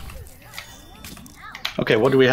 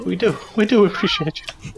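laughing; 6 semitones higher than usual. Real, not acted. Joking banter, laughter heard.

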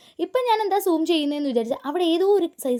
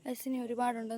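much softer, asking the camera; quiet; 2 semitones lower, 12 dB quieter than usual. Real, not acted. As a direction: drop the voice, ask the viewers quietly. Repeating the question to viewers.

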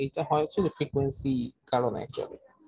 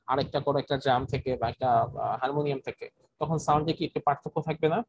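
choppy, dropping online audio; words cutting out mid-sentence; buffering stutter. Real, not acted. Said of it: "কথাগুলো সবসময় কেটে যাচ্ছে".

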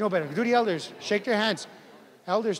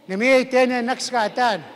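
raised, higher model phrase; nice and loud; 4 semitones higher than usual. Shown as a demonstration. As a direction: call it out for the class to copy. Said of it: "Nice and loud, guys".

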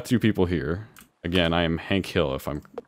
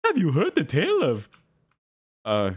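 higher mock Italian accent; Mario; 8 semitones higher, slower than usual. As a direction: ham it up as an Italian plumber. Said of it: "it's me, Mario".

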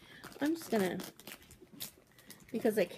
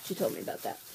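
soft unvoiced whisper; whispered aside; 4 semitones lower, 5 dB quieter, much faster than usual. Real, not acted. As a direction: confide it in a whisper. Whispered aside after gift.

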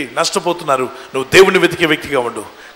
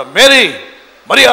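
louder call of a name; calling her name; 4 semitones higher, 6 dB louder, slower than usual. Retold or imitated. The risen Lord calls Mary by name, calling out. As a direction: call out to get her attention. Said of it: "అని చెప్పి పిలిచాడు".

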